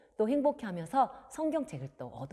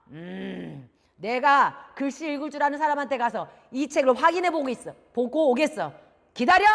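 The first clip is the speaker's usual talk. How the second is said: grumble, then bark the final order; angry father; 3 semitones higher, 7 dB louder than usual. Acted. Father going off to have the book checked, angry. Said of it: "화를 버럭 내시면서".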